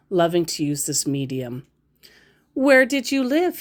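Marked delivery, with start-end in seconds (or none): 2.5-3.6 mock scammer question. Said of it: "he asks".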